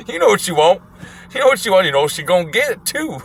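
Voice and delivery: put-on high, crowing old-man voice; imitated old man. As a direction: crow it like a mock old man. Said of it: "motherfucker with the one eye goes".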